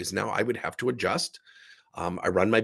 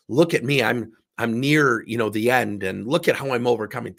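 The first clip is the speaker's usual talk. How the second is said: hammed-up look-at-me suffering, louder and slowed at first; mock theatrical self-pity; 4 dB louder than usual. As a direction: mockingly play the brave martyr. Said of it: "I'm not trying to theatrically say".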